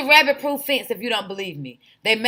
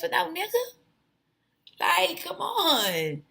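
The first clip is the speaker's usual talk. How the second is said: whisper; 5 semitones higher, 6 dB quieter, slower than usual. Real, not acted. Scoffing at celebrity gossip.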